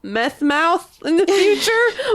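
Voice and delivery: high, wailing comic alarm; hammed-up worried whine; mock panic. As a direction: fret in a high, half-joking panic. Comic alarm over teeth dreams.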